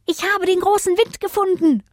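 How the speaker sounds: high, tiny announcing voice; high-pitched excited call; little star calling out. A narrator's reading. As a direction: call the news out as a small star. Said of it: "rief es".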